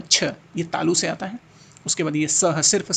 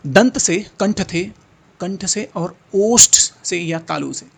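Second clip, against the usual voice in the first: emphatic reading; 7 dB louder, slower than usual. Shown as a demonstration. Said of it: "teacher reads options emphatically".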